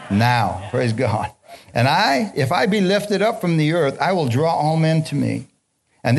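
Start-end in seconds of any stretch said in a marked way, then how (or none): 1.7-5.5 raised preaching voice. Acted. Preacher reads Jesus' words aloud.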